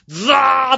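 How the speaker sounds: loud, high rush of pouring rain; imitated downpour noise. Opening the door onto pouring rain, imitated downpour noise. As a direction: make the whoosh of a sudden downpour.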